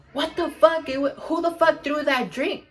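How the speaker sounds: high-pitched indignant demand; imitated outrage. Girl demanding who threw the drink, mock outrage.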